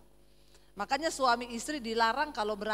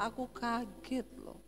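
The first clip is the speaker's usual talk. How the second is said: low, soft, understated startle; Solo man reporting shock; 4 semitones lower, 6 dB quieter than usual. Retold or imitated. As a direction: report your shock softly and evenly. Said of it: "Orang Soloi kaget laporan". (laporan kaget ala Solo, pelan)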